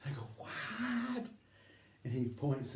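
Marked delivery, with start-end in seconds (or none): 0.4-1.3 high-pitched imitation of calling back; mock shouted question. Teller cannot hear him under waterfall, mock shouted question. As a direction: act out straining over a roar. Answering over deafening waterfall.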